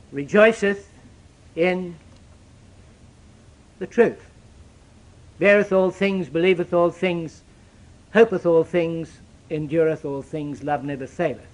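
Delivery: solemn King James reading; scripture reading. Acted. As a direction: read the verse with reverent weight, letting it sink. Reads scripture slowly, fading.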